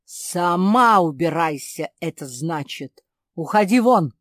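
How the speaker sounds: loud, furious shouting; enraged. A narrator's reading. Pierre enraged at his daughter, loud furious shout. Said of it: "рассвирепел Пьер".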